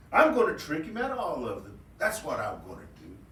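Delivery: lightly voiced scheming rabbit, settling down; plotting the trick to himself. Rabbit plotting to trick Coyote, lightly voiced scheming.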